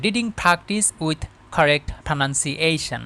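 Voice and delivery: slow, careful English read-aloud; careful model reading. Shown as a demonstration. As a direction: read the heading slowly for learners. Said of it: "রিডিংটা সুন্দর করে পড়ে নিচ্ছি". (যত্ন করে ধীরে ধীরে সুন্দর পাঠ)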